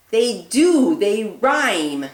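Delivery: loud delighted praise; excited. Acted. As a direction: cheer it out. Excited praise after gasp.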